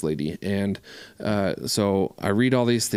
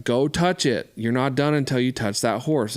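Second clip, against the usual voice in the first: calling from afar; 4 semitones higher than usual. Retold or imitated. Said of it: "from afar".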